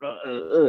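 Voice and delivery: short imitated grunts, jerked out; mock choked grunting noises. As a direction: mimic a body being jerked by bloodbending. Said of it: "They were like".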